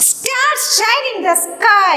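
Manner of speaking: drawn-out, deliberate reading; slow dictation. Shown as a demonstration. Teacher reads a workbook sentence aloud to pupils, slow and deliberate. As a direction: read it word by word for the kids. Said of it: "reading sentence to class".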